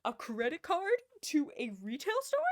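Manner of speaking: loud, high disbelief; incredulous. Real, not acted. Incredulous rhetorical question.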